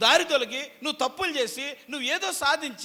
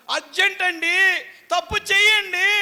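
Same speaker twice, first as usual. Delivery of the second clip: tempting Satan; 9 semitones higher, 10 dB louder than usual. Retold or imitated. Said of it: "అని సాతాను మిమ్మల్ని బ్రతులాడుతుంది".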